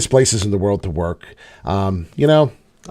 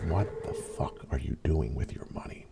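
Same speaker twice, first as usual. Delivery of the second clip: a hushed, sneaky whisper; mock government whisper; 11 semitones lower, 16 dB quieter than usual. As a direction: breathe it like a snooping spy. Voicing the nosy government.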